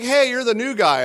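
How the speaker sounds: chirpy imitation of a cheerleader; light girly voice. Mimicking Amy's greeting.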